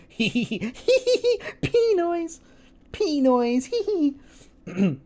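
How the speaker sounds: squeaky high-pitched giggling; high giggle. Real, not acted. Giggling at own joke.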